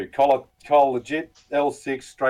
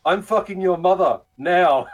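higher, cocky retort; mock scammer taunt; 7 semitones higher, 3 dB louder than usual. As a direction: throw the insult back with glee. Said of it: "And he goes".

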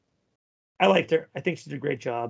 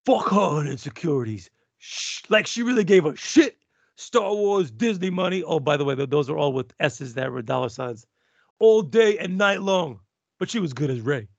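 bad Spiro impression; 4 dB louder than usual. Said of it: "That was the worst Spiro I've ever heard".

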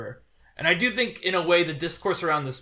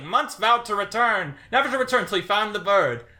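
newsreel announcer; 5 semitones higher than usual. Retold or imitated. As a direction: intone it like a 1940s newsreel. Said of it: "the newsreel announcers".

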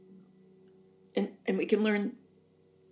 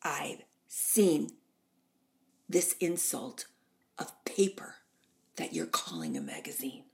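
Norma Desmond; 4 semitones lower than usual. Retold or imitated. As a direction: imitate a haughty faded star scolding. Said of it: "and she said".

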